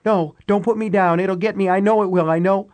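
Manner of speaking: high, frightened begging; terrified pleading. Acted. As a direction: plead in terror. Terrified woman refusing to stand.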